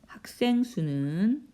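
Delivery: slow dictation with long pauses; drawn-out words, long gaps between phrases; slow writing-along pace. Real, not acted. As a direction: say each phrase slowly as you write it out. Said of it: "쓰려니까 시간이 많이 걸리네요".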